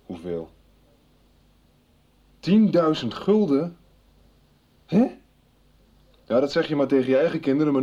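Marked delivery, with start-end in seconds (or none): 2.4-3.8 slow, higher disbelieving question; shocked disbelief. Acted. Shocked at sum on phone. 4.9-5.2 sharp, much higher outraged huh; can't believe what he heard; startled huh. Acted. Reacts to phone caller.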